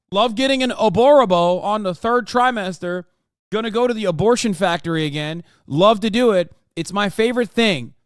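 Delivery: gushing fake delight, dripping sarcasm; mock how much fun it supposedly is; sarcastic mock enthusiasm. Streamer mocking Republicans with fake sarcastic delight.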